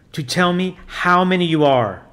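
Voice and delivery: a lightly voiced priest commanding solemnly; stern priest. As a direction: intone it like an exorcist giving orders. Priest repeats his demand.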